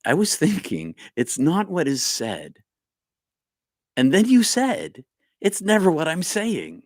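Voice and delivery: high, sing-song mock Irish accent; playful imitation of an Irish accent; hammed-up Irish accent. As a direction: ham up an Irish lilt for a friend's comment. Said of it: "Michael's from Ireland".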